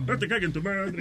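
slow soft repeat for the host. Shown as a demonstration. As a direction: repeat it slowly and quietly. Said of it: "Pero dilo más lento".

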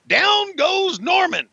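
high, drawn-out shout; announcer's knockdown call. Pretend. Commentator calling Norman's fall, drawn-out knockdown shout. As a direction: stretch it out like a ringside announcer.

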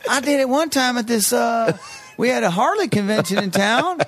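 mock redneck storyteller. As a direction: belt it out like a rowdy biker telling a story. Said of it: "And then he goes".

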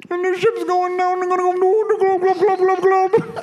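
high, silly drowning voice; hammy high gurgling glubs; Bill Cosby impression. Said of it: "you just did a Bill Cosby".

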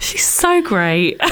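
slow, drawn-out admiring sigh; gushing admiration. Retold or imitated. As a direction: stretch it out adoringly. Admiring thought quoted while gushing.

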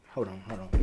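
talking around gum; words blurred by chewing gum; mouth full. Real, not acted. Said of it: "having old gum in his, uh, in his mouth".

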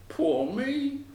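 high, rising wail; crying out woefully. A narrator's reading. Wagoner finding his barrel empty, high lament. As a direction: pitch it up in self-pity. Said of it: "he cried".

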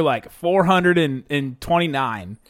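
slow Southern drawl; Southern accent. Pretend. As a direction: stretch it out Southern style. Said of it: "I just said that in a Southern accent".

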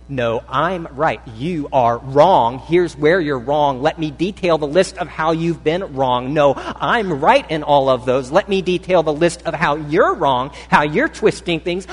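playing both sides of a quarrel, building; mock argument building. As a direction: build the quarrel, getting heated.

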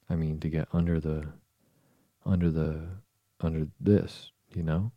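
halting "under the", each try lifted and left hanging; groping for words. A narrator's reading. Alice fumbles for the name of the tree, groping for words. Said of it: "not being able to think of the word".

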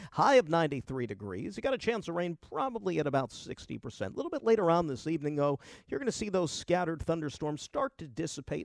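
lightly voiced TV weatherman. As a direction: read it like the local forecast. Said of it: "weatherman voice here".

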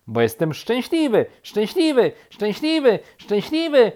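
high, loud repetitions climbing each time; gleeful. A narrator's reading. Woodpecker tells rabbit why, gleefully climbing in pitch. Woodpecker explains its laughing happily.

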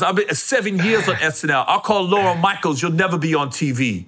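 imitated comedian's boastful threat; mock rant in another comic's voice; Tracy Morgan. Comedian threatening a friend's career, imitated rant. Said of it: "and then he goes".

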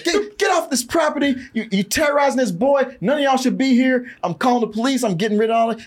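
high, shouting priest ordering soldiers off; angry priest yelling. Retold or imitated. Priest driving soldiers off his property, high angry shout. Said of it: "the priest shows up and he's like".

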